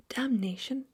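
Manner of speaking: angry oath. Acted. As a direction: spit out the curse. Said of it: "shouted the Duke".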